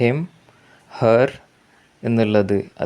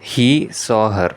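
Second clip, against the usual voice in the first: very slow and a bit louder, each word apart; slow emphatic example; 5 dB louder, much slower than usual. Shown as a demonstration. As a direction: read the example slowly for the class. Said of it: "teacher reads example sentence". (ഉദാഹരണം പതുക്കെ ഉറക്കെ വായിക്കുന്നു)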